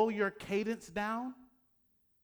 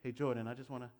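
repetitive filler address; 6 semitones lower, 5 dB quieter, faster than usual. Shown as a demonstration. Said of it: "I don't talk to my daughter like that".

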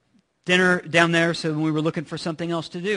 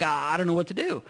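put-on childish panic; 6 dB quieter, faster than usual. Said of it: "we all of a sudden become five years old".

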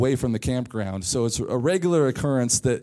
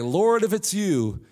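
mock pleading Peter. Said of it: "Peter could have said".

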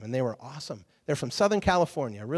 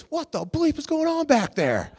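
high, loud acted rocker yell, mid-laugh; mock angry yell; 11 semitones higher, 4 dB louder than usual. Singer on stage yelling at the praying group, mock angry. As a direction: bark it from the stage, half laughing.

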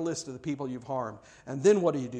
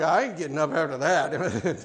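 laughing bystander; 3 dB louder than usual. Retold or imitated. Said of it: "Somebody's like".

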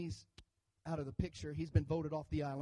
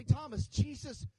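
excited disciples; 5 semitones higher than usual. Retold or imitated. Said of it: "they begin to say".

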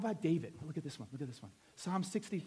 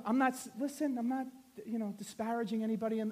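usual speaking voice

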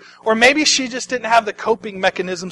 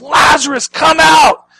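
loud, high commanding shout; acted scream; 9 semitones higher, 8 dB louder, slower than usual. Jesus summoning Lazarus from the tomb, screaming. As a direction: call out at full voice. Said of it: "he screams".

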